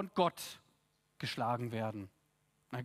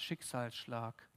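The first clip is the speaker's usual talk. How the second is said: dramatic hush; 8 semitones lower, 9 dB quieter, slower than usual. Acted. Dramatic summing-up word.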